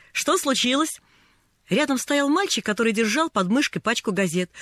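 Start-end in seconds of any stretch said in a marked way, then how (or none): 0.1-1.0 put-on cheery, higher-pitched boy's question; cheerful. A narrator's reading. Newsboy checks on a crying lost girl, cheerful. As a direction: ask brightly what is up. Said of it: "весёлый голос".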